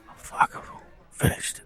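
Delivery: breathless muttered aside, slow; whispered aside. Retold or imitated. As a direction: whisper it under your breath, dazed. Stunned inner thought on meeting.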